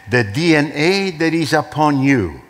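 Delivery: rising, emphatic sermon delivery; fervent preaching. Acted. Pastor preaches to the congregation about the power within them, fervent and rising. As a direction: build the power of each claim.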